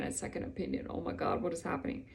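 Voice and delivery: hear the fear rising under your breath; hushed panicked thought. Retold or imitated. To herself on the phone, a hushed frightened whisper. Inner panic at second opinion.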